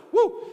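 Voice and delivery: loud, high "woo!"; short excited preacher's whoop; worked-up whoop. Real, not acted. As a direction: let off steam with a whoop. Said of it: "I am worked up".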